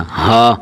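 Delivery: ہا said full and open, long "aa". Shown as a demonstration. Teacher demonstrating the letter ha, full heavy sound. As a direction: give ہا a heavy, open "haa", never thin. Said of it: "تو اسے موٹا کر کے پڑھنا چاہیے".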